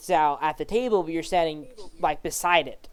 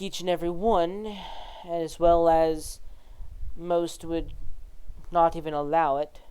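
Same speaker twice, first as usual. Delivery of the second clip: a hint of a guarded official confiding; reserved judge; 4 dB quieter than usual. Judge explains the truth spell to Zhao, lightly voiced and reserved.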